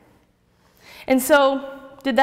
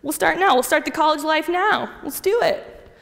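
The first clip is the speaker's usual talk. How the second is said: party excitement; 5 semitones higher than usual. Retold or imitated. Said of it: "I was like".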